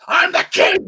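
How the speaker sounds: loud, high mock-villain yell; retold shout of a villain gone mad with power; evil king. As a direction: proclaim it as a hammed-up evil king. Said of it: "He turns all evil and shit".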